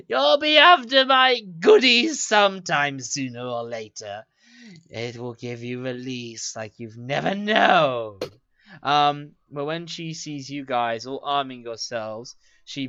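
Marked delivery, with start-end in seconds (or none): 0.1-8.2 crone taunt. Acted. Crone taunts after cackle.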